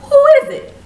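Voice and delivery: high loud call through the door. Retold or imitated. Woman calling to a stranger at her door, high loud call.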